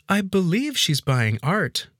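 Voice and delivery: slow, high-pitched maid, wary; suspicious. A narrator's reading. Maid answering about the wife's trip, suspicious. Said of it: "the maid responded suspiciously".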